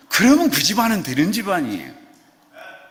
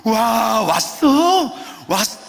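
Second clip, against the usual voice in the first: excited greeting; 7 semitones higher, 6 dB louder, much slower than usual. Pretend. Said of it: "난리 부르스를 쳐요".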